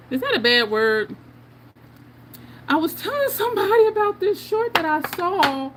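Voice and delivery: ordinary delivery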